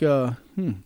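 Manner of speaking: ordinary talk, nothing marked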